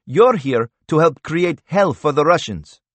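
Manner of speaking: a hint of a bitter rebel fighter; Toman's voice. A narrator's reading.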